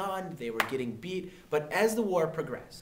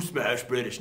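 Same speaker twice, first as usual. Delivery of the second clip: lightly lowered gorilla voice; mock gorilla; 4 semitones lower, slower than usual. Teacher joking about the other kind of guerrilla, mock gorilla talk. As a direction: play a smashing ape, half in jest. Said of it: "we don't mean guerrilla like".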